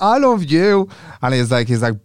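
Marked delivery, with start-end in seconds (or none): 0.0-0.9 gushing. Retold or imitated. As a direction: gush it out like a giddy teen in love. Gushing reply to love confession.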